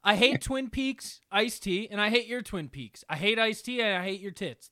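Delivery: hammed-up spousal complaint; play-acting a furious husband; mock anger. Mock marital quarrel.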